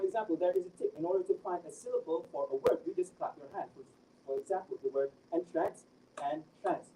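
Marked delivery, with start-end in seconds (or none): 6.2-6.9 "and trance" as two separate beats; split into syllables. Shown as a demonstration. Student shows examiner how to count syllables, "and trance" syllable by syllable. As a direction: break "and trance" apart, syllable by syllable. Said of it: "There are two syllables".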